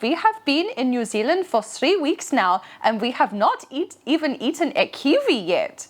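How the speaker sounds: put-on light German accent on English. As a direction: imitate German tourists, lightly. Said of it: "they were saying to me in their German accent, which I will try to impersonate".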